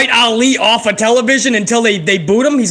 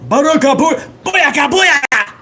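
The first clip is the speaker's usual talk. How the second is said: raised, stretched-out playful chant; hyped entrance-style whoop; catchphrase call; 5 semitones higher than usual. Acted. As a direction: sing out the catchphrase to yourself.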